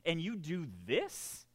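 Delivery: reliving the rant, pleading and indignant; half-hearted mock yell at God; retold yelling at God. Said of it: "I was yelling at God".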